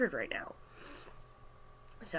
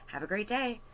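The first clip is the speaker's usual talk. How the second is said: higher, sincere sign-off; not sarcastic; 5 semitones higher than usual. Retold or imitated. Cashier demonstrating her farewell to the customer, not sarcastic. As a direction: say it pleasantly, no snark. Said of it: "Not snarky, not sarcastically, just".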